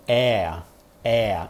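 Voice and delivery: é with the mouth wide open and the tongue flat on the floor; exaggerated open vowel. Shown as a demonstration. Teacher demonstrating the open American vowel, exaggerated. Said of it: "Eu tô exagerando".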